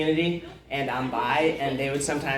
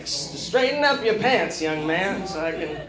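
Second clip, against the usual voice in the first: Bill Cosby impression; 4 semitones higher than usual. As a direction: drag it out like Cosby. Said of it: "I'll just do my Bill Cosby".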